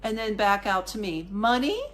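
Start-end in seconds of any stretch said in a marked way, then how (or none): 1.3-1.8 lightly voiced kid, higher rising question; a hint of a cute little plea; cute begging kid. Boy holding his hand out to the tourist, mildly cute plea. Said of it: "Being cute, going".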